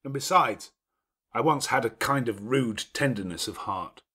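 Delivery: a lordly host giving orders at ease; gruff master of the house. Acted. Rochester speaks of his past.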